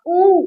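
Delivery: ऊ held long; long vowel. Shown as a demonstration. Teacher showing double-length vowels, ऊ drawn out. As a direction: stretch out ऊ. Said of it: "थोड़ा ज्यादा".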